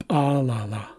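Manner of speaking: Alala as pa-la-la after a popped P; ejective P. Shown as a demonstration. Teacher reads the word for working, ejective P. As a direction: open "Alala" with a sharp ejective P. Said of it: "what we call, uh, ejective Ps".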